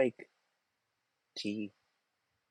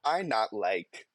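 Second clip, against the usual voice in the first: slow mock quote; slower than usual. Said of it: "Just the".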